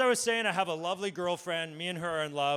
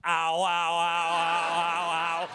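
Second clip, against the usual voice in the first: mock subtle ow; 3 semitones lower, much slower than usual. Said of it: "I say something subtle like".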